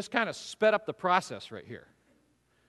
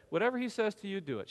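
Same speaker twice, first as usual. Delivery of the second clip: trusting, no attitude; 5 dB quieter, faster than usual. Shown as a demonstration. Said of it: "No, I think she said".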